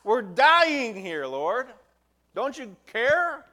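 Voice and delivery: high, loud, slow desperate wail; panicked wail. Retold or imitated. Preacher mimics terrified disciples begging Jesus: high loud drawn-out wail. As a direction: whine it out like frightened men in a storm.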